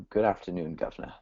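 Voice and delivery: mock British "governor" greeting; British accent. Shown as a demonstration. Guest coaches host on a UK greeting, mock British accent. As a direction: show a playful, understated UK accent. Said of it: "try and talk the U K".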